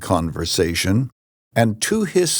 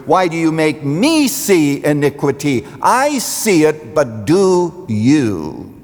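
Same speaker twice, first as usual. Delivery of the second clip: higher, pressing the prophet's challenge; anguished plea; 6 semitones higher, 4 dB louder than usual. Retold or imitated. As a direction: demand an answer from God. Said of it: "Verse three".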